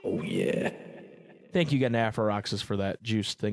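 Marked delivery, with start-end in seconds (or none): 0.0-0.7 1 whispered tag. Acted.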